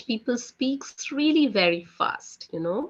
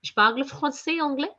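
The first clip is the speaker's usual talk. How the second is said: quick, linked, higher-pitched; fast native French; 6 semitones higher than usual. Shown as a demonstration. Teacher shows how natives rush the sentence. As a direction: fire it off like a Parisian. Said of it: "They speak like this".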